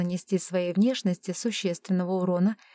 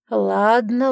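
louder rising ladno, pushy; reluctant yield; 6 dB louder than usual. A narrator's reading. Giving in to her.

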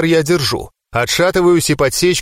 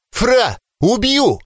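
high, drawn-out threat, a mild roar; Тайра; 9 semitones higher, much slower than usual. A narrator's reading. Captive threatens opponent, restrained high roar. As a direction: stretch each word in raised pitch, no real volume. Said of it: "доносится сквозь подушку рёв Тайры".

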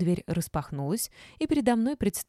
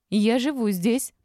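high, loud, slow protest; indignant shout; 6 semitones higher, 5 dB louder, slower than usual. A narrator's reading. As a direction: shout it out word by word. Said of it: "закричала Олечка".

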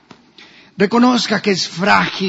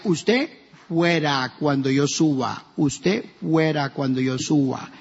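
low, slow, menacing order, softer; a boss coldly dismissing staff, slowly; mock threatening order; 4 semitones lower, 5 dB quieter, slower than usual. Candidate ordering officials out of his office, low and slow menacing.

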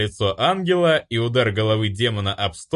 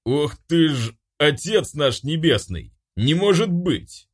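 astonished; 7 semitones higher than usual. Acted. Angel stunned by recognition.

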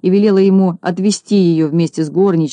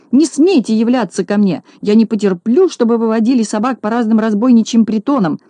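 mild angry shout; 4 semitones higher than usual. Acted. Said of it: "закричала она".

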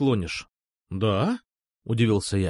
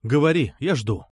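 firm. A narrator's reading. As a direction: lay it down firmly. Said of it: "твёрдо сказал я".

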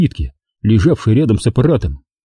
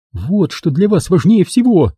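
higher, near-hysterical outburst; near-hysterical shout; 8 semitones higher than usual. A narrator's reading. Girl screaming at Bolan over the documents, near hysterics. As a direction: accuse him, voice climbing high. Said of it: "закричала она почти в истерике".

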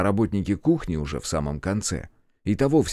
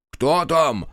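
higher-pitched, jumpy challenge; nervy, raised-pitch cry; nervous shout; 7 semitones higher, 4 dB louder than usual. A narrator's reading. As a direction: call out nervously at an unseen visitor. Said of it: "раздался нервный выкрик".

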